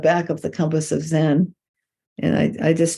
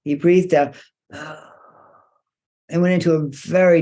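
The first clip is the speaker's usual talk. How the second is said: long breath out; slower than usual. Shown as a demonstration. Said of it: "like a breathing out mu".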